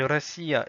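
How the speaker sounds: "Russia" said ra-SEE-ya; first vowel as A. Shown as a demonstration. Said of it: "on voit bien que c'est".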